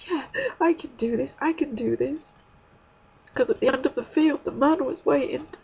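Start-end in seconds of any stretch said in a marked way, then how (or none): 0.1-2.3 self-encouragement. Retold or imitated. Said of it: "I was telling myself".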